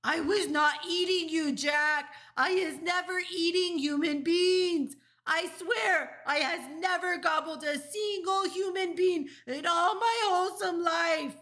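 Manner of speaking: high, loud, desperate denial; terrified screech. A narrator's reading. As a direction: giant screeching for his life. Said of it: "he screeched".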